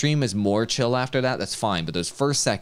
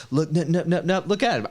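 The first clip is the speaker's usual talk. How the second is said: mock excited; 7 semitones higher than usual. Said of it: "He's like".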